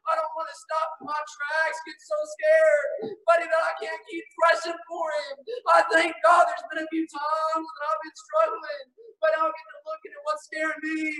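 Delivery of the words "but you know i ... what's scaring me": crying while preaching. Real, not acted. Preacher recalling his struggles, tearful shouting. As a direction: voice breaking into tears as he shouts. Preacher tearing up mid-sermon.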